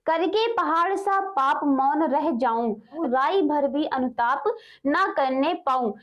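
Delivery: slow, deliberate reading of poetry; measured poem reading, pausing between lines; verse recitation. Acted. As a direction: draw out each phrase of the verse. Reads verse aloud.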